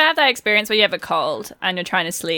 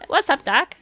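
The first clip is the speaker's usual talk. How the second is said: higher, rough stab at a cartoon rabbit; Bugs Bunny; 6 semitones higher than usual. Showing friends a half-remembered rabbit, higher cartoon impression. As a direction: have a go at the cartoon catchphrase. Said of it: "what Bugs Bunny sounds like".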